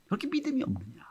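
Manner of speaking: soft breathy question; whispered rebuke. Acted. Jesus asks the fearful disciples, whispered. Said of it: "말씀하세요".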